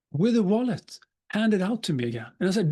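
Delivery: usual speaking voice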